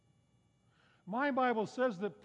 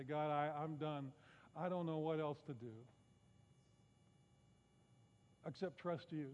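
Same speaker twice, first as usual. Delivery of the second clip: soft, lowered plea to God; surrendered prayer; 4 semitones lower, 7 dB quieter than usual. Acted. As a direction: quietly give up and hand it over to God.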